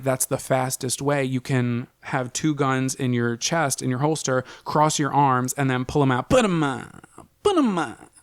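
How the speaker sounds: a hint of an old west gunslinger; cowboy voice. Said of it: "sound like a cowboy?".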